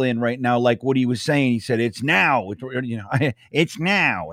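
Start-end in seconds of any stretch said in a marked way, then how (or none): 1.8-2.5 a light take on the coach's clipped way of talking; just hint at how Woody talks; lightly voiced Woody, barely off his own voice; Woody impression. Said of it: "That's how he talks". 3.5-4.3 a faint imitation of the coach's blunt delivery, right after a laugh; a mild Woody imitation, almost his own voice; Woody impression. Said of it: "That's how he talks".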